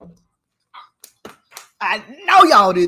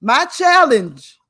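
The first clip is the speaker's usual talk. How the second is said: slow, loud, drawn-out yell; a real slow yell she catches herself doing; 3 semitones higher, 6 dB louder, much slower than usual. Real, not acted. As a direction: shout the challenge at the viewers, slowly. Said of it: "I said I wasn't gonna yell".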